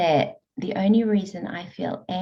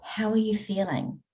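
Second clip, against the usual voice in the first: gentle curious questions. Shown as a demonstration. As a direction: ask yourself gently, almost whispering. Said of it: "how questions".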